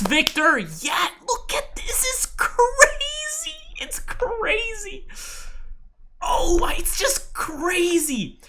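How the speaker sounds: very high, stretched shrieks of joy; real overjoyed squealing; ecstatic shouting. Real, not acted. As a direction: scream with delight at the results. Celebrating a student's equity curve.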